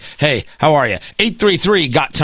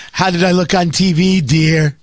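lightly voiced vain man with a head cold, asking his wife; a hint of a stuffy-nosed fussy husband; Fauci with a head cold. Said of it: "I assume that's what he sounds like".

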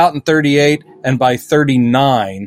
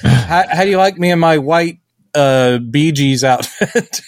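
mock flirty Lois; 3 semitones higher than usual. Voicing Lois flirting with Superman.

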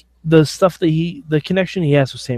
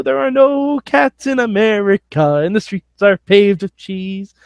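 Fievel voice; 4 semitones higher than usual. Retold or imitated. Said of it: "he comes to America and he's like".

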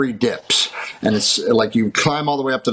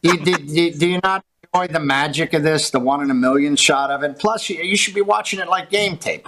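incredulous retort; 5 semitones higher than usual. Real, not acted. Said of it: "his own retort to those actors".

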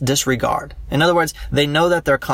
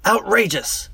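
higher, hammed-up cry of outrage; mock outcry; 7 semitones higher, slower than usual. Law teacher mimics the public crying outrage, mock shout. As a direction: act out the public's shocked outcry. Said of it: "would they scream out".

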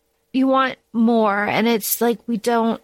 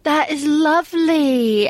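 mock admiring; 4 semitones higher than usual. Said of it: "she goes".

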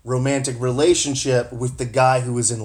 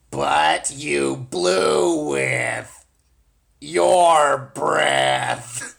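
slow robot drone; lightly voiced robot; much slower than usual. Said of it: "so I'll just be the robot".

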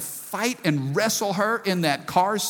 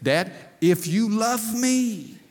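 put-on slow, lightly raised little-girl plea; pleading toddler; 3 semitones higher, slower than usual. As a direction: daughter bargaining with her dad's love. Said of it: "she's just crying".

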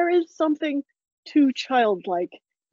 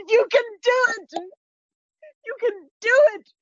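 much higher, cheering encouragement; 10 semitones higher than usual. A narrator's reading. Narrator cheers for the rising sun, excited. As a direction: urge the sun up like a fan.

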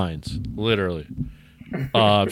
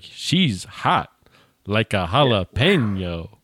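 slow, stiff line reading; bad acting; much slower than usual. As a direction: deliver it like a wooden actor. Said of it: "he delivers it like that".

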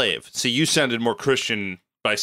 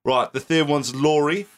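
put-on Cockney accent.

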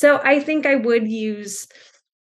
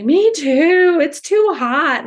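imitating a child; 6 semitones higher, 6 dB louder, much slower than usual. Kids answering the teacher.

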